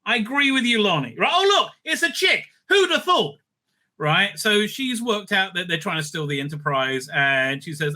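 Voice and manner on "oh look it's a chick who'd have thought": sarcastic. Acted. Sarcastic jab at casting.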